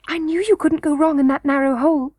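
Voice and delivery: put-on high little-girl voice; young princess Irene, confident. A narrator's reading. Princess waiting for Curdie round the corner, high-voiced.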